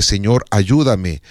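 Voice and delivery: an unhurried humble plea; simple prayer. Shown as a demonstration. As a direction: say it slowly, as a trusting prayer.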